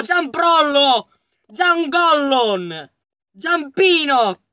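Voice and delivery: very slow, drawn-out names; teasing name-calling. Real, not acted. Gamer mocking the creature with silly names, slow teasing. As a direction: stretch each silly name.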